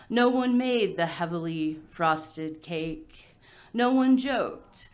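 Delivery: measured poem delivery with pauses between phrases; poetry reading. Acted. Adopted poet reading about a missing baby shower, measured recital. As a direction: let each image land, phrase by phrase.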